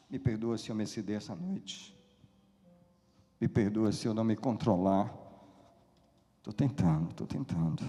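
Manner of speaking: subdued apology. Real, not acted. Preacher apologizing for getting carried away, hushed and contained. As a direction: come down to a quiet, restrained murmur. Apologizes after shouting outburst.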